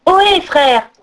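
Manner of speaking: put-on high boyish call. A narrator's reading. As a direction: hail your brothers from afar. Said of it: "cria le jeune pêcheur".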